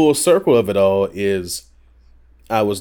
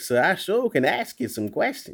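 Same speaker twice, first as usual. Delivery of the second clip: higher-pitched, hammed-up Southern dialect; 9 semitones higher, 4 dB quieter than usual. Shown as a demonstration. Voice actor showing what a Southern dialect script gets, Southern dialect. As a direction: turn on a folksy Southern accent. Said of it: "script for Southern dialect".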